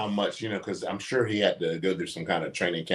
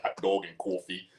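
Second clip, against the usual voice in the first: lightly put-on Northern vowels, Northern accent; mock Northern accent; 4 dB quieter than usual. Messing with the wife, teasing Northern accent. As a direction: imitate a Northern accent to tease. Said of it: "like, Northern".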